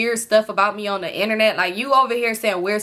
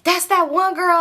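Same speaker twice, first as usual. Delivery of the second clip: higher, slow surprised realization; sister realizing; 7 semitones higher, slower than usual. Retold or imitated. Sister spotting the girl in photos, higher surprised voice. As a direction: act out the sister's sudden recognition. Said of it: "she was like".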